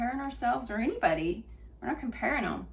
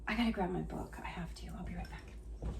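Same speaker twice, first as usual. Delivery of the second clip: hushed aside; 3 semitones lower, 6 dB quieter, faster than usual. Real, not acted. Steps away to fetch book.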